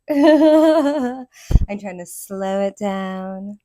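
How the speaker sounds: slowed down, deliberate voiceover read; slow, even announcer-style delivery. Shown as a demonstration. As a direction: ease it out like a voiceover artist. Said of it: "working on my voiceover work".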